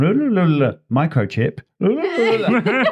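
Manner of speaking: sing-song fake Welsh babble, rising high; mock Welsh gibberish. Mocking her friend's Welsh boyfriend in sing-song babble. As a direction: imitate a foreign language as nonsense. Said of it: "it would be going".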